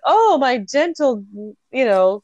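mock-delicate protest with a lifted pitch; fainty, delicate woman. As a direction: play a lightly hammed-up fainting lady. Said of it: "It seems fainty".

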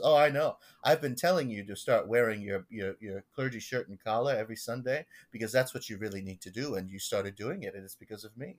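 self-satisfied old Long Islander, lightly imitated; Gordon's Long Island accent. Parishioner taking credit as pastor's mentor, Long Island accent. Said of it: "and this is how he talks".

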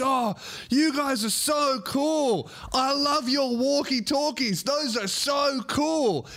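put-on slow, high, excited kid voice; cute little boy. Little boy gushing to paramedics, high and slow. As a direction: gush like a small child. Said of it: "this cute little boy runs up".

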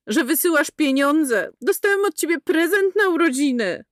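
put-on high boy's voice building to a yell; angry boy rising to a shout; shouted in her face. A narrator's reading. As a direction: hurl the last line at her. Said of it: "Ostatnie zdanie wykrzyczał jej w twarz".

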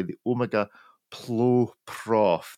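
"Plo Prof" said slowly, word by word; slow, careful pronunciation. Real, not acted. Host tackling a tricky watch name, slow and careful. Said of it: "If I say it slowly enough".

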